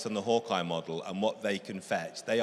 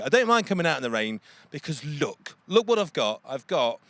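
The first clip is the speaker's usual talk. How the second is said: louder, thrilled reveal of the car; excited showing off; 3 semitones higher, 6 dB louder than usual. Real, not acted. Presenter in the rain showing off the Jaguar, thrilled and loud. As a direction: show it off like a prize find.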